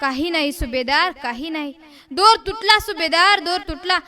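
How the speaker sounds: hushed, swallowing down grief; soft, subdued report, holding back a sob; choking back sobs. Acted. Soldier tells the subhedar the rope broke, choking back sobs. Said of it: "हुंका आवळीत, औंढा गिळीत बोलता झाला".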